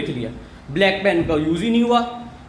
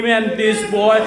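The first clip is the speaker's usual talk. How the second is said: tattling shout; much slower than usual. Retold or imitated. Classmate shouting to ma'am, tattling. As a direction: call it out to get ma'am's attention. Girl snitching third time.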